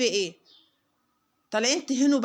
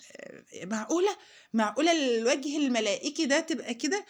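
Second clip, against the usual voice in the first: mock disbelief; 3 semitones higher than usual. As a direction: act shocked that such an innocent face could do this.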